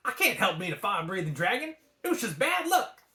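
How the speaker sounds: fast, high sulky dragon; Mushu. A narrator's reading. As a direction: defend himself petulantly. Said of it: "said Mushu".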